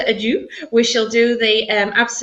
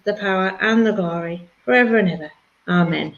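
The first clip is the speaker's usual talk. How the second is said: posh voice; 3 semitones lower than usual. Acted. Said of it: "Did I have my posh voice on again for that".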